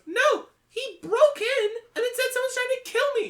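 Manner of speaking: high, rushed character voice; B explaining, high. Acted. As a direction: protest it as B. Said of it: "You watch as B goes".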